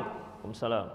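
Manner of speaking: low, soft, cowed answer; timid reply. Acted. Children replying to the stern father, low and soft. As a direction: answer meekly, afraid.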